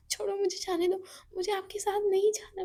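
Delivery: high, desperate pleading; Eva on his shoulder, pleading high; pleading cry. Acted. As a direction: beg to be let down. Eva begs while carried.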